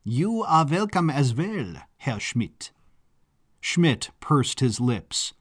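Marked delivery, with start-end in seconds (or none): 0.0-2.7 butler calling after. A narrator's reading. Butler invites the departing officer, mild calling-out in character. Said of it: "the butler called after him".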